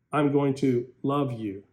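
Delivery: tender, loving. Shown as a demonstration. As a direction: say it like you truly mean love. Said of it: "Listen to the true virtue".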